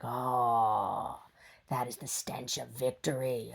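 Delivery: lightly voiced, lordly and pleased; a hint of a grand dog savouring it; smug dog voice. Dog Brody proud of his stink, lightly voiced and smug. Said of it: "And he's like".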